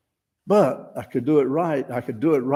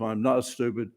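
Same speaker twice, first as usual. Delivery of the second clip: softer calm self-assurance; 3 semitones lower, 5 dB quieter than usual. Shown as a demonstration. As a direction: tell yourself quietly. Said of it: "I told myself".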